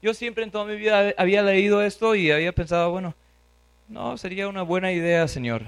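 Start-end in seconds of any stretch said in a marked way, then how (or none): 2.9-5.6 mild objection. Acted. Preacher voices the reply he had wrongly imagined, mild objection. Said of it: "No era así".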